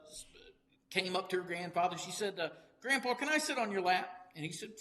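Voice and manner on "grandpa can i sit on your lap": lightly voiced little girl, pitched up. Joke teller voices granddaughter asking grandpa, lightly childlike. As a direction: ask sweetly like a small child.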